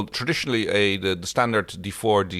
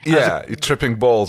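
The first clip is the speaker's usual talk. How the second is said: joking whisper; 3 semitones higher, 5 dB louder than usual. Real, not acted. Aside whispered joke.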